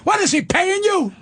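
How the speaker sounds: a sister-in-law yelling across the court; yelled accusation. Retold or imitated. Sister-in-law yells at the judge, accusing Pat. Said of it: "this woman yells out".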